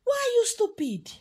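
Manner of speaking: irritated. Acted. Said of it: "becomes so irritated and angry and said".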